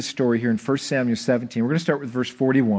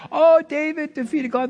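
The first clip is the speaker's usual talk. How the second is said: higher, sing-song parent voice; mock bedtime-story parent; 12 semitones higher than usual. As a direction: imitate a parent telling a kids' tale. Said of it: "we tell our kids".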